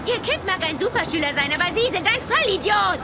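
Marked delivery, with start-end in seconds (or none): 1.5-3.0 angry outburst. Acted. Berating a parent.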